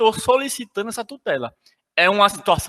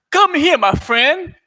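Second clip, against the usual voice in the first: higher, slower mock-friendly beckoning; playful English call; 6 semitones higher, 4 dB louder, slower than usual.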